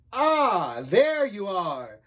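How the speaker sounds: slow, out of breath from climbing; winded, drawn-out greeting; panting. Acted. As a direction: puff it out after a hard climb. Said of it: "He was out of breath".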